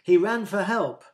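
loud, high-pitched guess; eager shout. A narrator's reading. Someone in the crowd answers Jesus's question, eager shout. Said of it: "shouted someone".

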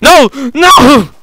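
high-pitched cry of dismay; high, dismayed wail; crying out in protest. Pretend. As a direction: cry out as the plan fails. Caught in game, cries out.

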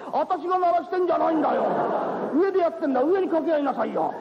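exasperated. Acted. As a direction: snap back, half laughing. Exasperated reply to her.

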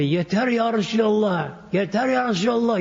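calling out his plea in the dream, high; mock outcry of a desperate believer; retold cry out. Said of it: "bu sebebi bağırıyor".

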